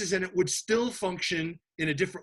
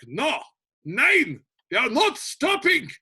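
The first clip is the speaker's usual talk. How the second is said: higher, a bit louder, cocky no; mildly mock German refusal; 6 semitones higher, 4 dB louder, slower than usual. Lightly voiced Germans refusing to stop for the French. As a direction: brush off the French like a passing tank crew. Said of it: "And the Germans are like".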